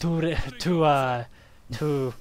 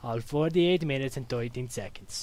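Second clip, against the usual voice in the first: mock Dracula-German accent. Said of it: "a mix of Dracula from Hotel Transylvania and the stereotypical German".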